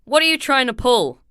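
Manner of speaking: loud, high outraged what; indignant. Acted. Cop protesting to Nightwing, loud indignant disbelief. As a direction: bristle with disbelief.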